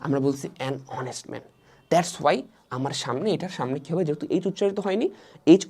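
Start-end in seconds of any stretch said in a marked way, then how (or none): 0.7-1.4 slow, soft "an honest man" with no h; silent H. Shown as a demonstration. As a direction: link "an" straight into the vowel of "honest". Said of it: "এতটুকু উচ্চারণ করতে শুধু".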